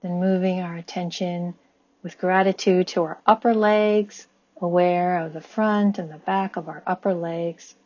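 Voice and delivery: calm body-scan guidance, long pauses between phrases; guided meditation. Acted. Guiding listeners' attention up the body with gratitude, calm meditation voice. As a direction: lead them gently and evenly, leaving room to breathe.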